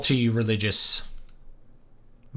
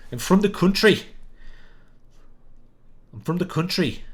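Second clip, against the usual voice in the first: higher rural country accent; 7 semitones higher than usual. Shown as a demonstration. Streamer demoing a country-accent character line. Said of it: "he talks in a country accent".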